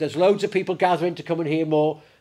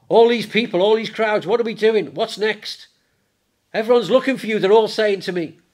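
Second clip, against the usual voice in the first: raised, louder excited pleading; worked-up urging; 6 semitones higher, 5 dB louder than usual. Acted. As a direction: blurt it out like an overexcited follower. Acted frantic disciples pressing Jesus.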